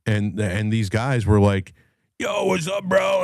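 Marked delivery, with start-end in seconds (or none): 2.2-3.2 high, shouted dude-bro hello; mock bro greeting. Guys at the bar hailing him, high mock bro shout. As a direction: ham up a frat guy calling out.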